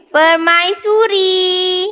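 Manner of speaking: permaisuri drawn out syllable by syllable; slow model word. Shown as a demonstration. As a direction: stretch out permaisuri so pupils catch each syllable. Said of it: "queen maksudnya permai". (sebut permaisuri perlahan-lahan)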